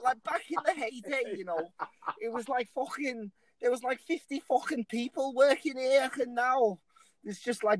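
put-on lightly done Scouse accent; a hint of a Liverpool worker reminiscing. Podcast host imitates a Liverpool worker, lightly done Scouse accent. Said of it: "let's just pretend he was in Liverpool and he was like".

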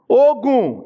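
Ogun high and loud with a sharp Yoruba fall. Shown as a demonstration. Teacher showing the Yoruba tone meaning long, Ogun high then falling. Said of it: "They will now put intonation".

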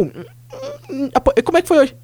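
put-on quiet, whimpering kid voice; mock teary kid. Kid home from school, answering his mother in a whimper. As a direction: act like you're hiding tears.

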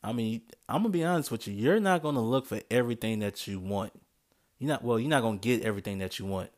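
a bit tipsy, rushing the words. Real, not acted. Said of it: "I'm still a little tipsy".

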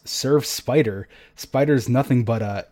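outraged at the insult; indignant retort. Retold or imitated. Amanda angrily retorts at Dreg.

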